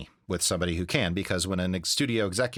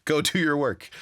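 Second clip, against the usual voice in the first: higher, lightly voiced wife; wife's voice; 6 semitones higher than usual. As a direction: play the wife, light and encouraging. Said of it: "So she's like".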